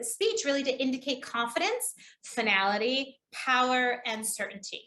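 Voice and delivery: key words set apart with pauses; measured list, weight on each of CONFIDENCE, FINALITY, POWER; deliberate inflection. Shown as a demonstration. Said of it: "I just did it right there".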